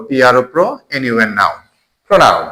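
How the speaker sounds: letter names, then each syllable of প্রোনাউন; teacher spelling out প্রোনাউন in chunks. Shown as a demonstration. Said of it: "syllable করে".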